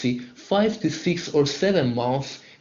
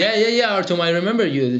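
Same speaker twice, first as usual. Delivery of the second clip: higher and louder eager greeting; light up when you recognise him; delighted to hear a familiar student; excited recognition; 4 semitones higher, 5 dB louder than usual. Real, not acted. Greets returning active student.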